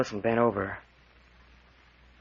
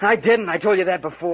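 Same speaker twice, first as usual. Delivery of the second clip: loud, high denial; indignant protest; 6 semitones higher, 6 dB louder than usual. Acted. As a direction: shout the denial back at him. Accused of stabbing, protests.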